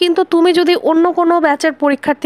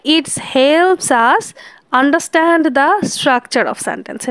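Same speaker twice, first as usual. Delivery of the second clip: slow dictation; much slower than usual. Shown as a demonstration. Slow dictation of English definition.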